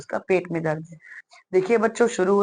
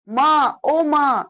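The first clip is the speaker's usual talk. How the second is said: higher, drawn-out cry for mother; groaning in pain; 6 semitones higher, 4 dB louder, much slower than usual. Acted. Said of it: "जोर से कराकर पेट पकड़ते हुए". (दर्द से कराहते बच्चे का अभिनय)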